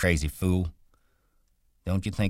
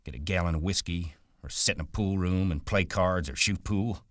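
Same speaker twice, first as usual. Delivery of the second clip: angry rant; 5 semitones higher than usual. Acted.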